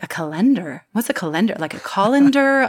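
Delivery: confused. Retold or imitated. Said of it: "And I'm like".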